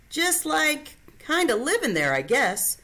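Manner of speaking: put-on high, casual shrugging girl; offhand girl voice. A narrator's reading. Sister shrugs off the question, high and casual. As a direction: toss it off lightly in a girl's voice.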